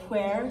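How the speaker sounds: "where" begun with an audible breathy H before the vowel. Shown as a demonstration. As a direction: blow a little air on the H of "where". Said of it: "it has the H in it".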